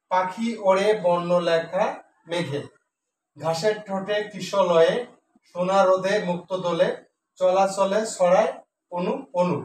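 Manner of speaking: slow, measured reading of the verse; poem recitation. Acted. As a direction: recite the rhyme slowly for the class.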